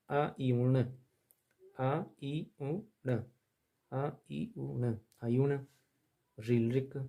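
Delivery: very slow, syllable by syllable; slow recitation. Shown as a demonstration. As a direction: chant each sound slowly for students. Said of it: "चलिए, आप थोड़ा सा इनको पढ़कर देखते हैं".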